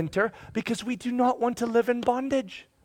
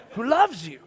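lively, swooping question; more vigor; 3 semitones higher than usual. Acted. Father on the bed prompting his kids, vigorous. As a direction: ask it with real vigor. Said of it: "let's try to say that with a little more vigor".

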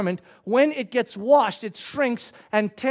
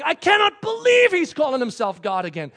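mildly incredulous, higher-pitched outburst; mock indignation; 4 semitones higher, 3 dB louder than usual. Preacher voices Pharisees reacting to Jesus' claim, mock indignation. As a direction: act out the Pharisees' disbelief, lightly.

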